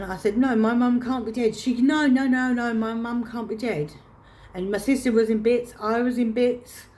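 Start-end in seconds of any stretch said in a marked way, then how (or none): 0.4-3.9 higher, louder pleading denial, retold; distraught. Daughter refusing news of her mother's death, retold distraught. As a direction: relive breaking down in disbelief. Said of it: "literally broke down".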